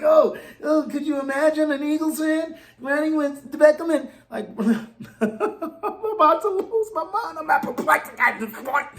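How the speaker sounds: high, laughing, slowed incredulity; cracking up at the absurd idea; laughing disbelief. Real, not acted. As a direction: laugh through the outrage.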